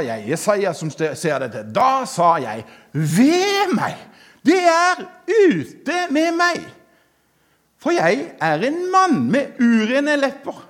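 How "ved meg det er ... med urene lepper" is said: high, slow lament in a scripture reading; dramatic cry of woe. Acted. Isaiah before the Lord confessing unclean lips, dramatic woe. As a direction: cry out the prophet's despair, drawing out key words.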